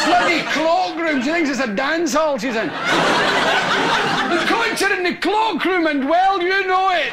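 exasperated mother's call, laughing through it; mother shouting back. Retold or imitated. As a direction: scold the kids across the house. Mother yelling back at kids.

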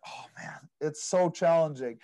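whispered, feigning hardship; mock whisper. Son telling his parents about deals, in a mock whisper. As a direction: breathe it out like a weary confession.

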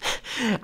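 brief high, breath-puffed laugh; short laugh. A narrator's reading. Woman dismissing his request, short laugh. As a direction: let out one curt laugh. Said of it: "Sie stieß ein kurzes Lachen aus".

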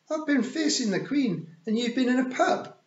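high, loud indignant scolding. Acted. Tiffany scolding the Feegles for drinking, indignant.

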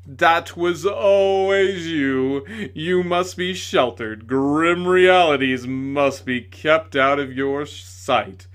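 loud, slow, sneering accusation; bitter tirade. A narrator's reading. Tragedian accusing the lady, loud sneering tirade. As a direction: hurl every don't back at her.

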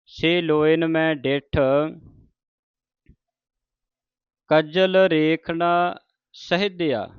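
measured verse reading with deliberate phrase breaks; scripture recitation. Acted. Teacher models Farid's verses for the congregation, measured recitation. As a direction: recite each phrase, then pause.

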